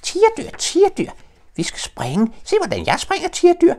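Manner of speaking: very high, loud little joey calling out; excited shout. Acted. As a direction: squeal with thrilled excitement, little kangaroo. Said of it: "blev han vildt begejstret og råbte".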